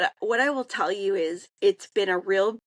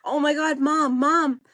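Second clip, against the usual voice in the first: calling out from another room, higher and louder; imitated hollering; 7 semitones higher, 4 dB louder than usual. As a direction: mimic a daughter yelling for mom. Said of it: "she's hollering from the other room".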